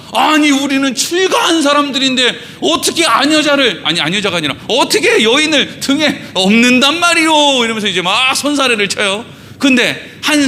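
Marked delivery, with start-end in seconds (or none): 0.1-7.6 raised, higher voice of a scandalised monk, protesting; indignant refusal. Retold or imitated. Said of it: "막 손사래를 치면서".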